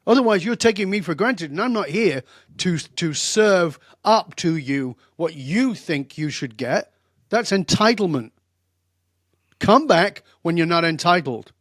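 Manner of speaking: very direct. Retold or imitated. Speaker scolding an entitled would-be speaker, blunt and loud. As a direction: lay down the law to her. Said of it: "'cause I was very direct".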